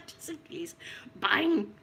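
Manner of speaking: breathy whispered punchline. Pretend.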